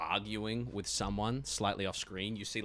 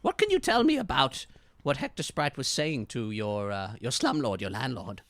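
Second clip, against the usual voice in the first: loud, put-on detective question; 4 semitones higher, 7 dB louder than usual. Detective questioning about the landlord, put-on voice. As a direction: press for answers like a cop. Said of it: "he says to you".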